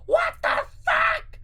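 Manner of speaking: very high slow shout; barked shout. Acted. Gru barking at Drew in pain. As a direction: bark it out in shock. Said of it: "Gru barked".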